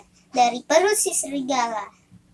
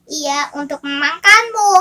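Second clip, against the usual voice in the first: menacing; 7 dB louder than usual. Acted. Wolf reveals itself.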